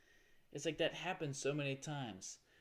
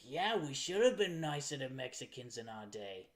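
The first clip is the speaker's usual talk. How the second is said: put-on old-school liberal; 4 dB louder than usual. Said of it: "old school liberals are like".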